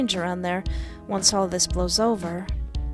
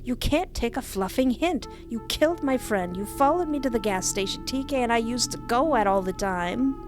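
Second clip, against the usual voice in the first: high, hurt and furious; angry outburst; 4 semitones higher than usual. Acted. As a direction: lash out in raw hurt. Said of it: "startled from my outburst".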